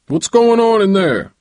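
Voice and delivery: booming uncle's demand; thundering. A narrator's reading. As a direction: call out sharply, like an uncle bursting in. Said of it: "Uncle James's voice thundered".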